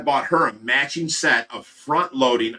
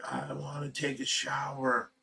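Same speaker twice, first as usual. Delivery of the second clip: soft, slow, drowsy mumble; weak sleepy voice; 15 dB quieter, slower than usual. Retold or imitated. Woken sick wife asking her husband, soft slow mumble. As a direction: say it half asleep and weak. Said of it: "she's like".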